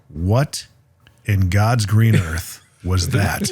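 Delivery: put-on slow, appalled English accent; English friend. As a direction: imitate an aghast Englishman, word by word. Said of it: "who was from England".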